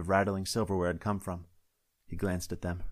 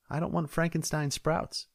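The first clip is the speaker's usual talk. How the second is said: higher, slow and prim; fussy deputy; 9 semitones higher than usual. Acted. Deputy refusing the sprout salad, high and slow. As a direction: spell out her disgust slowly. Tammy fussing over organic sprouts.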